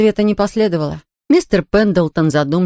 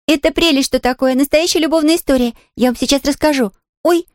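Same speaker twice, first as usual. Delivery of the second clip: put-on higher, quick girl's voice bursting to tell; excited little girl; 7 semitones higher than usual. A narrator's reading. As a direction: gush like a thrilled child. Pollyanna bouncing with excitement.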